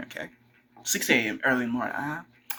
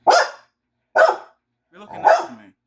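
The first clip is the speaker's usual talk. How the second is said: much higher, slow, sing-song voice for the dog; squeaky high pet voice, drawn out; pet talk; 9 dB louder, much slower than usual. Real, not acted. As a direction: coo it up high and slow at the pup. Sweet-talking the dog.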